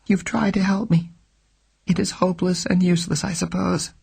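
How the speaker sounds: frightened woman bravely says goodbye; trembling but composed. Acted. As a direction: hold back tears with dignity. Trembling woman thanks him.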